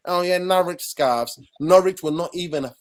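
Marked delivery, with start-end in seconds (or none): 0.1-1.4 imitating sarcastic critics, higher and slow; mock them with a drawn-out, raised sneer. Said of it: "Those of you who are sarcastic going".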